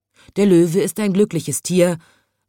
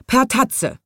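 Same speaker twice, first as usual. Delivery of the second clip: higher-pitched, lightly voiced grumpy lion; rumbling lion; 8 semitones higher than usual. A narrator's reading. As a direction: grumble it as the storybook lion. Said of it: "grollte der Löwe". (leicht grollender Löwe)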